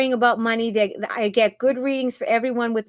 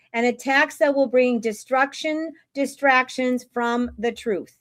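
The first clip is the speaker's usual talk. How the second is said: lightly performed prophetic reading; Julie. Acted. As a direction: read it out like a broadcast prophecy. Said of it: "read it just like Julie reads it".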